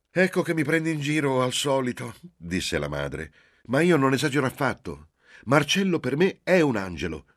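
high, loud, earnest mother's voice; protesting mother. Acted. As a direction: insist over the teasing. Mother protests being teased. (madre che protesta di essere presa in giro, voce alta e forte)

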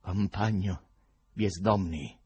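measured, oratorical address; mildly declamatory salutation; political-rally voice. A narrator's reading. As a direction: address him like a speaker at a rally. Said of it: "con una voce da comizio".

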